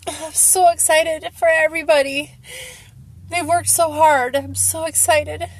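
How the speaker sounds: real joyful tears; tearfully excited. Real, not acted. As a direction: gush proudly while still choked up. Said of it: "I'm laughing and crying".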